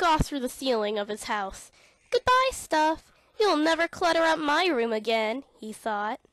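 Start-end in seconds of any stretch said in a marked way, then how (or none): 2.1-5.4 gleeful goodbye. Acted. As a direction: wave the mess off with glee. Boy cheers rocket away.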